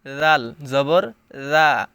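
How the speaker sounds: রা said lightly, soft onset. Shown as a demonstration. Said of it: "নরম হবে।".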